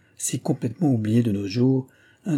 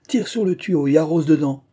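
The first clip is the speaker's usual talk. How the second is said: higher-pitched shouted order; cried out; 6 semitones higher, 4 dB louder than usual. A narrator's reading. Prince directing Mila at the fire, calling out. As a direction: call the instruction out, voice lifted. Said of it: "cria le prince".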